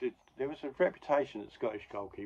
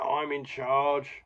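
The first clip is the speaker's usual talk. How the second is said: angry ref; 3 semitones higher, 3 dB louder than usual. Retold or imitated. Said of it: "The ref's very angry".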